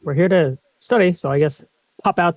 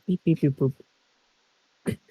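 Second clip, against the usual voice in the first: softly mouthed scanner beeps; imitated tricorder beeps; 4 semitones lower, 6 dB quieter than usual. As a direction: play the scanner's beeping under your breath.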